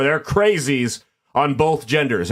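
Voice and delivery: "both" drawn out for emphasis; stress on BOTH. Real, not acted. Podcast host clarifying it's men and women, stress on BOTH. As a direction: lean hard on "both". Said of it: "Emphasis on the word both".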